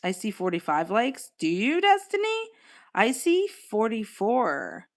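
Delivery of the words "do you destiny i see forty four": leaps up high in disbelief; high, incredulous question to a viewer; surprised. Real, not acted. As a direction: ask like you can't believe it.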